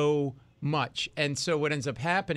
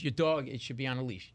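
polite request; 2 semitones lower, 3 dB quieter than usual. Retold or imitated. Wife to a dog owner in the park, polite request. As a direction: say it nicely, without pushing. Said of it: "she was very nice".

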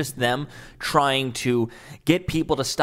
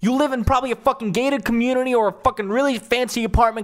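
loud, higher, swearing outburst at the clip; furious rant; 5 semitones higher, 3 dB louder than usual. Real, not acted. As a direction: tear into him, raging. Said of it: "I'm going off a little too much".

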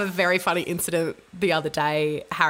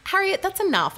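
higher, louder stern mother; firm telling-off; 12 semitones higher, 4 dB louder than usual. Retold or imitated. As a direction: put your foot down. Mother snaps at whinging child.

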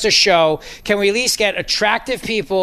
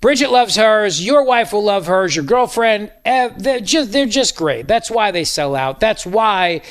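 upbeat radio ad voice; ad read. Acted. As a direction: sell it like a host-read ad.

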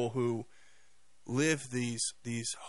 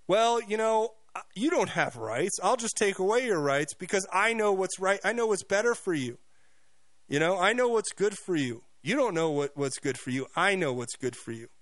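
smug condescension; 5 semitones higher than usual. Retold or imitated. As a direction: lecture them like a smug bureaucrat who knows best. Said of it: "to the point where they're like".

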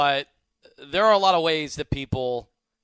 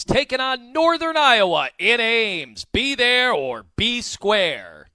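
mock announcer. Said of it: "mock announcer play-by-play".

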